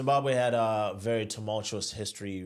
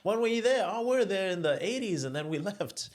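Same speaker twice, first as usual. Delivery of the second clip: much higher mock voice of white Zimbabweans; 11 semitones higher than usual. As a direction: play the old Rhodesians, high and chirpy. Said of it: "I sort of speak to them".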